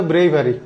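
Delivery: "ব্রেভারি" with its first vowel as a long "ei"; bravery with "ei". Shown as a demonstration. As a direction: say "ব্রেভারি" as BREI-va-ri. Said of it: "এর উচ্চারণ হবে এই". ("ব্রেভারি", "এ"-র উচ্চারণ "এই")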